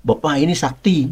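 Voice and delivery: lightly imitated Acehnese dialect; Acehnese accent. Staff member warning his boss about the man's powers, light Acehnese accent. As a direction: put on a touch of an Acehnese accent. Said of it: "kan pakai dialek Aceh".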